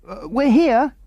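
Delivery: high, brave yell with a hesitant start; valiant yell. A narrator's reading. Mary answers the searching men with a brave, high yell. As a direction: yell out bravely though scared. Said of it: "yelled Mary valiantly".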